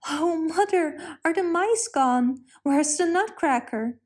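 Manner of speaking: put-on a girl waking up and asking in a rush; cried out. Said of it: "Maria cried".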